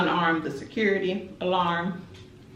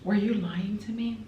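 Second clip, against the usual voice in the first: quiet questioning; 4 semitones higher than usual. Retold or imitated. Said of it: "exactly how it played out".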